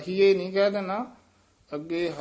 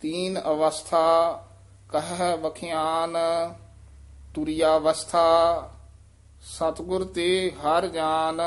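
careful recitation. Shown as a demonstration. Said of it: "ਇਹ ਅਵਸਥਾ ਉਚਾਰਨ ਕਰਨਾ ਹੈ".

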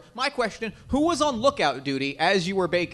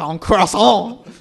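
slow, loud, drawn-out French "croissant"; "croissant" stretched in a hammy French accent; French stank; 10 dB louder, much slower than usual. Shown as a demonstration. Game master shows how to say croissant, hammy French accent. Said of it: "putting in the French stank".

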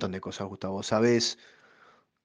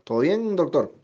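talking to the cat; 7 semitones higher than usual. Real, not acted. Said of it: "Le estoy hablando al gato".

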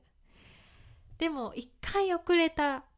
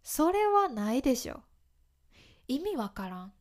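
indignant disbelief; 2 semitones higher than usual. Shown as a demonstration. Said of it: "みたいに使えます".

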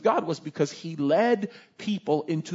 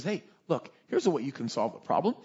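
low, soft conspiratorial pitch; sly advice; 5 semitones lower, 6 dB quieter than usual. Acted. Prophet going back to the king with a scheme, sly. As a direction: offer the scheme quietly, down low.

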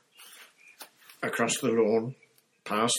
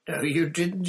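much higher, louder cry of disbelief; disbelieving boy; 11 semitones higher, 7 dB louder than usual. Acted. Harry cries out at Moody in disbelief. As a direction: refuse to believe it.

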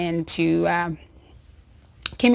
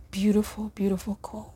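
hushed whisper; 6 dB quieter, faster than usual. Real, not acted. Moved after quote.

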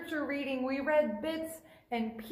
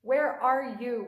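mild cry to God; 4 dB louder, slower than usual. Retold or imitated. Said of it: "we might cry out to God".

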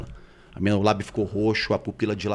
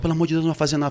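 higher-pitched imitated plea; pleading mother-in-law; 5 semitones higher, much faster than usual. Mother-in-law begging at the bedroom door, mock pleading. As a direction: lightly voice an anxious plea.

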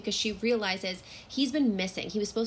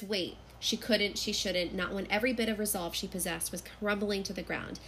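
measured, softer story reading; novel read aloud; 4 dB quieter than usual. Acted. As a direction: read the passage aloud with quiet drama. Reads a passage from the novel.

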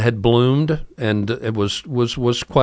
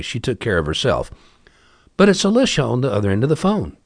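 ordinary talk, nothing marked

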